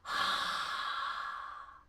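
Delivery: long unvoiced exhale; breath out. Shown as a demonstration. Coach demonstrating a long exhale. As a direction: push the air out in one breath. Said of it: "So I'll go".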